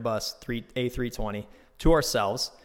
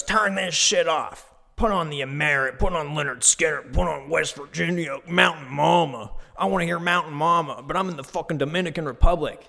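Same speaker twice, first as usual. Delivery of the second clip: a hammed-up rowdy American tourist demanding his music; drunk tourist yelling; 4 semitones higher than usual. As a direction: imitate a drunk guy barking at the driver. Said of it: "He's yelling at this poor bus driver".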